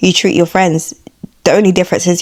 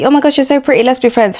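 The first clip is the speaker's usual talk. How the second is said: mock gushy, higher-pitched compliment; gushing fake-nice girl; 5 semitones higher, faster than usual. Pretty girl angling to be friends, mock gushing. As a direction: imitate an overeager girl making friends. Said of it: "them girls that be like".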